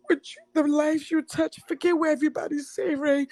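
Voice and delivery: real tearful outpouring. Real, not acted. Hurt caller thanking Ray for a safe place, crying. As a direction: pour out thanks through tears.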